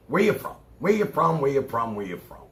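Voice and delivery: repeated question, fading each time; mock nosy stranger, dying away; imitating everyone asking where he's from; mimicking strangers. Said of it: "Everybody I meet".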